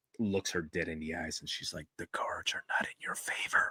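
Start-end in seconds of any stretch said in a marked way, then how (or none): 2.0-3.7 menacing, sinister hushed whisper. Retelling a condemned woman's last words to the executioner: imitating a sinister whisper. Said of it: "the whisper is more sinister".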